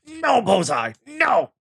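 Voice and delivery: put-on child begging her toy horse not to leave; imitating a distressed child. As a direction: wail it like a heartbroken four-year-old. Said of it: "all I can see is Evie going".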